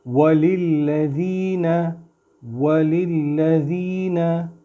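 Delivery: वलिल्लज़ीना with lips rounded and pushed forward on the w; rounded waw. Shown as a demonstration. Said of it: "वाव पे होंठों को गोल करके आगे करेंगे".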